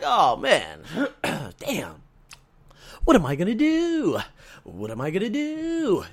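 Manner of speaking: flat, dejected monotone. Retold or imitated. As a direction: drone it out like you've given up. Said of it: "I was a little bit in monotone".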